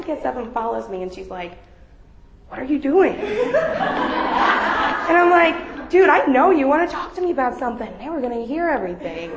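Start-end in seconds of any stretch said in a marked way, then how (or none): 2.5-9.3 louder, laughing exasperation; half-laughing exasperation; laughing retelling. Retold or imitated. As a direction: laugh while voicing the panic. Retold tense exchange, laughing.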